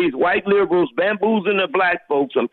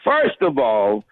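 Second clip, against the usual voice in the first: imitating Linda; 5 semitones lower than usual. Caller does the host's colleague Linda, mock imitation. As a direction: put on a bit of Linda, drawing it out. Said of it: "I gotta do a Linda".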